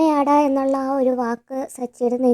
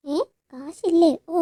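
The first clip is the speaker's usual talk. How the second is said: slow, drawn-out mock surprise, pitched up; 5 semitones higher, much slower than usual. Son scoffing at his mother's excuse, slow sarcastic surprise. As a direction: sneer the question out slowly.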